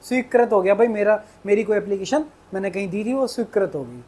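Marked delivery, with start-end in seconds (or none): 0.0-0.5 स्वीकृत as "sweekrat"; casual wrong "krat" ending on स्वीकृत; old mispronunciation. Shown as a demonstration. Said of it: "मैं इसको स्वीकृत पढ़ता था". 3.3-3.7 स्वीकृत as "sweekrat"; the "kra" slip in स्वीकृत; old mispronunciation. Shown as a demonstration. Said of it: "जबकि ये स्वीकृत नहीं है".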